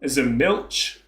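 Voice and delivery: German in a slow, exaggerated Texas drawl; Texas accent. Shown as a demonstration. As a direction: read it like the most American Texan. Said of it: "I'll put, like, a Texas accent on".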